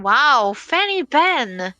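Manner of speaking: high, drawn-out excited call. Real, not acted. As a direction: stretch it out in delight. Caster reacts to surprise ban.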